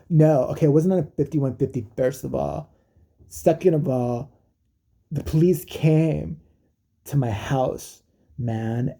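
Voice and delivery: lightly voiced surfer dude, halting; a hint of laid-back surfer in the imitation. Singer explaining the police visit, lightly imitated surfer dude. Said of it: "like, a surfer dude again".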